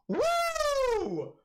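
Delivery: high breathless whispered cheer; whispered woo. Real, not acted. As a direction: let out an airy whispered whoop. Celebrating the knockout.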